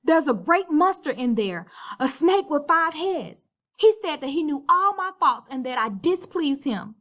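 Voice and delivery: high, loud panicked telling; a frantic frightened warning; terrified. Acted. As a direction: gasp it out in terror. Terrified sister describes monster.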